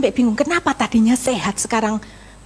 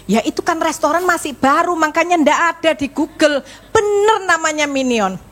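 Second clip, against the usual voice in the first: higher-pitched, mock-stubborn arguing; insistent defence; 4 semitones higher than usual. Wife defending her mistaken restaurant name to husband, insistent. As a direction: retell a wife standing her ground.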